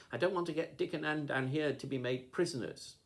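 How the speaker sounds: put-on girl begging not to betray friends; tearful. A narrator's reading. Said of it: "sobbed George".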